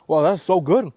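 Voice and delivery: thrilled by the taste; delighted. Real, not acted. Tasting delicious fruit.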